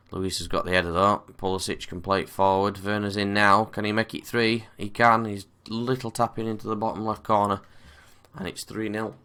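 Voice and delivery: strained, sore throat voice; talking through a sore throat. Real, not acted. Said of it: "I've still got a very sore throat".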